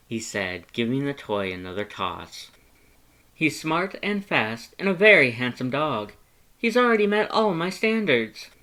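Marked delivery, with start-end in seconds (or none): 3.3-8.5 high, loud, eager skeleton; Papyrus voice. A narrator's reading. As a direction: talk up your past like an earnest, excitable skeleton. Papyrus praising the dog.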